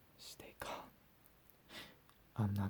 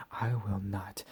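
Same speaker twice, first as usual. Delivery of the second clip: loud whispered threat; 7 dB louder, slower than usual. Acted. Captor threatening outburst.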